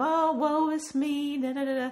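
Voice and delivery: mopey sad-sack voice, high and sappy with self-pity. Mocking the kind of seriousness not wanted in the movie: mock mopey sad voice. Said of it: "Not the mopey, sad, sappy kind of".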